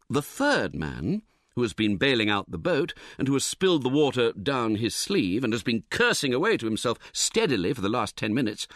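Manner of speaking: ordinary delivery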